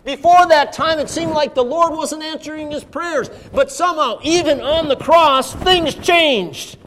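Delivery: high-pitched, rousing sermon delivery; preacher building conviction; fervent preaching. Real, not acted. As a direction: lift the voice and press the point. Preaches at full force.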